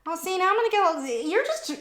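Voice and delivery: high, welling-up protest; trying not to cry as she talks; flustered, near tears; getting teary. Real, not acted. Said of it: "trying not to be all teary".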